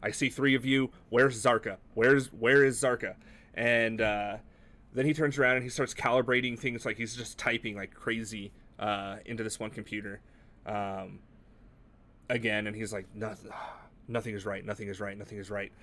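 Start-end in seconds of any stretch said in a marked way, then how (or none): 0.0-3.1 panicked. Acted. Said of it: "very panicked". 13.1-15.7 despairing mutter. Acted. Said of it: "very panicked".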